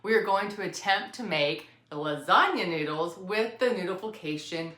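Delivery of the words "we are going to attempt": pointed emphasis on the word "attempt"; stress on attempt. Real, not acted. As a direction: hit "attempt" hard as a caveat. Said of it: "emphasis on the word attempt".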